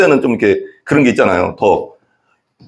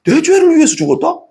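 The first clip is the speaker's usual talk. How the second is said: 죽었다 rising far higher in disbelief; incredulous high question; 14 semitones higher than usual. Shown as a demonstration. Preacher to congregation, voicing his old disbelief in a high incredulous rise. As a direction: pitch it up as if you can't believe it. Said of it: "나는 그렇더라고".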